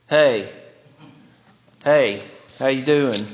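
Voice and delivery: casual, low Southern hey in passing; perfunctory greeting. Shown as a demonstration. Greeting someone in passing without really caring, perfunctory. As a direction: toss off a routine hello. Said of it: "it sounds like this".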